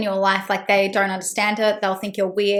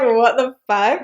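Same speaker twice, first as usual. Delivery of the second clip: stunned what the; much slower than usual. Retold or imitated. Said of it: "And I was just like".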